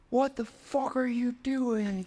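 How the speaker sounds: high, slow mock yell of an angry man; retold angry scream. Angry man yelling at the party host, imitated mock yell. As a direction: bark it like a furious stranger grabbing your collar. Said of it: "He screams".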